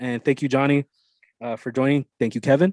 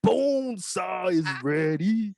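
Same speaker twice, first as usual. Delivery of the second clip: slow, higher wrestler rasp; Bonesaw; 5 semitones higher, much slower than usual. Retold or imitated. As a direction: snarl it like a hammy wrestler. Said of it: "I'm gonna do the Bonesaw".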